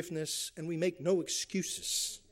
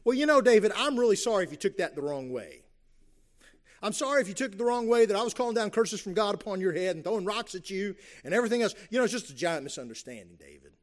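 mock non-apology; 3 semitones higher, 5 dB louder, faster than usual. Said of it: "What does Shimei never say?".

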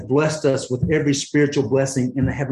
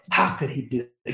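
voicing Paul. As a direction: let Paul marvel aloud, then drop to a whisper. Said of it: "He's like".

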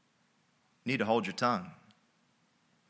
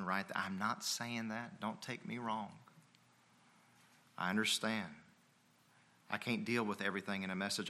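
understanding aside; 2 semitones lower, 9 dB quieter than usual. Real, not acted. Pastor to the moms in his congregation, quiet understanding aside. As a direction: drop the volume and pitch to reassure.

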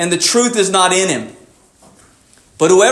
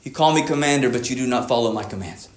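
suddenly low and soft; hushed rebuke; 9 semitones lower, 6 dB quieter, faster than usual. Retold or imitated. Preacher voicing Jesus to his followers, hushed rebuke. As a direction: let the accusation sink in quietly. Last accusation dropped for effect.

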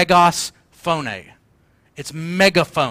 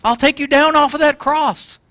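high, loud proclamation from heaven; big ringing fatherly call; booming Father's voice; 9 semitones higher, 3 dB louder than usual. Acted. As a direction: boom it out like a father answering his son. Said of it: "Father booming his voice down from heaven".

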